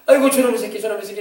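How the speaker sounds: mock sigh over a naughty kid; lamenting parent. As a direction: groan it like a fed-up parent. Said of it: "이러면서 한탄할 필요". (자식 때문에 한탄하는 흉내)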